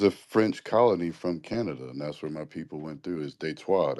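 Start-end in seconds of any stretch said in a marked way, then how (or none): 3.3-4.0 "Detroit" said as "DEE-troit", first syllable stressed and falling; local pronunciation. Shown as a demonstration. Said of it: "That's how it's pronounced".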